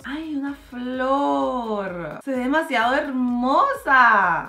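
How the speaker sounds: very slow dreamy coo; cooing delight. Real, not acted. Seeing a painted flower, a very slow coo. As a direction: linger on the flower sweetly.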